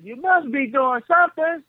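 high calling voice from another room; granddad calling. Retold or imitated. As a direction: call the name up high, a room away. Grandfather questioning.

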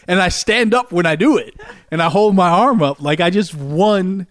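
ordinary delivery

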